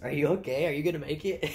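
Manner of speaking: lightly voiced coworker asking if I'm okay; concerned coworker. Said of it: "and my coworker goes".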